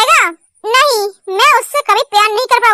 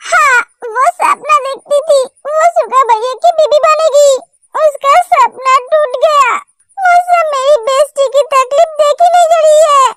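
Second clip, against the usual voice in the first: crying. Acted. Te tells Jungkook of Jimin's pain, crying. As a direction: speak through tears for a heartbroken friend. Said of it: "अरे रो मत".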